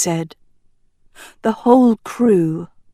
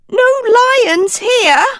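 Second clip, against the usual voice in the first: clipped; 4 dB louder than usual. Acted. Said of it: "clipped Bogdan".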